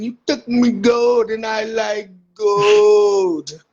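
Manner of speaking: building from calm to taunting; cocky wrestler calling out a rival; wrestling promo. Pretend. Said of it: "I gotta cut a promo on Briggs".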